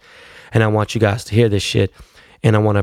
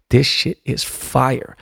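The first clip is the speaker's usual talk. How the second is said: drawn-out hype; 3 semitones higher, much slower than usual. Retold or imitated. Hyped reaction to a friend's track.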